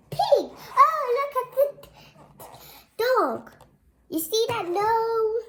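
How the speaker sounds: high, loud delighted exclaiming; high thrilled noticing; excited pointing. Real, not acted. Excited about picture.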